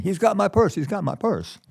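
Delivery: high-pitched mock cry for help; imitated screaming. Old lady calls after a purse snatcher, mock screaming. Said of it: "a little old lady way behind screaming".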